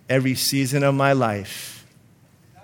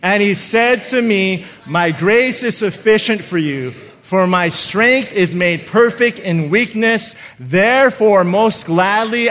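with more passion; 3 semitones higher than usual. Shown as a demonstration. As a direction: read it like you love the word of God. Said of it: "say that with a little bit more passion".

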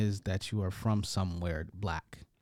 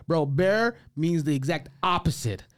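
mock exasperation; 4 semitones higher than usual. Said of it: "and I was like".

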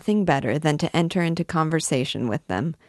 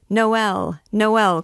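higher, louder narrated cheer; crowd's cry; 6 semitones higher, 4 dB louder than usual. A narrator's reading. People applauding Jupiter's announcement, crying out. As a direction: cry it out twice, lifting the pitch. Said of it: "cried the people".

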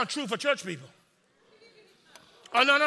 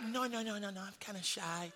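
much softer, timid little voice with a laugh; mock shy murmur; 3 semitones lower, 16 dB quieter than usual. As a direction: play it bashful and small.

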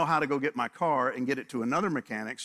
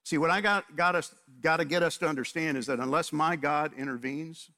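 preaching; 3 semitones higher than usual. Acted. Pastor urging his congregation to look for God, preaching with force. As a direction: drive each point home to the congregation.

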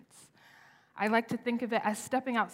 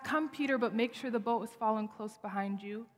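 mock cautious version. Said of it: "It's not".

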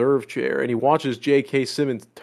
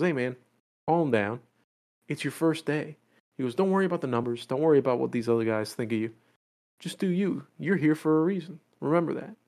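encouraging; 6 dB quieter than usual. Retold or imitated. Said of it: "he's giving all this encouragement".

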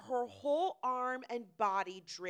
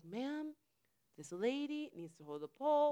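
softened, courteous request; politely restrained; 4 semitones higher than usual. Retold or imitated. Storyteller showing what she really said to the lady, polite. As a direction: rein it in to a polite ask. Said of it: "I didn't say any of it like that".

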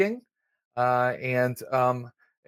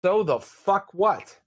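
contemptuous sneer; 6 semitones higher, slower than usual. Acted. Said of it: "the guy looks out and goes".

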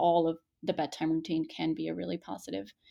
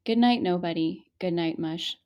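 gentle teacher reading a bedtime book; kindergarten teacher voice. Shown as a demonstration. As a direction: read it like to a class of five-year-olds. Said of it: "let me get my kindergarten teacher voice on".

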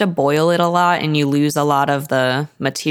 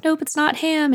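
much higher, playful "Nope"; teasing daughter; 12 semitones higher than usual. Retold or imitated. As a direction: sing it out teasingly, way up high. Meg teasing father.

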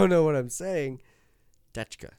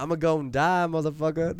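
slightly raised, hammed-up delivery; comic catchphrase; 3 semitones higher, 4 dB louder than usual. Host repeats his favorite name for him, comic catchphrase. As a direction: replay the joke line with mild bravado.

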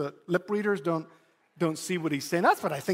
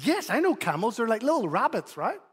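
playful teasing dad; 4 semitones higher than usual. Retold or imitated. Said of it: "have a little bit of fun".

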